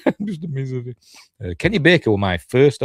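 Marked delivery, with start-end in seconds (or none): 0.1-1.0 laughing it off. Real, not acted. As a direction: say it through a chuckle.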